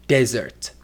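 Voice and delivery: "desert" stressed on the first syllable; DEZ-ert, weight on the front of "desert". Shown as a demonstration. Teacher showing learners syllable focus, "desert" stressed at the start. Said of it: "Syllable focus can create intonation".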